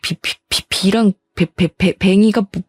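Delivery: badly stuck on the first syllables; stammering. Stammering fiancé objecting to his mother's insult, halting. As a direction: stutter out a halting protest.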